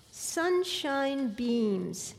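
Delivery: slow, grand announcement of a title; announcing. Acted. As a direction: draw out the title like a stage announcement. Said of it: "she announced".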